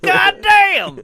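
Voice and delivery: high, loud vendor curse; stadium vendor hawking. Pretend. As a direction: bellow it as the vendor. Vendor bit again.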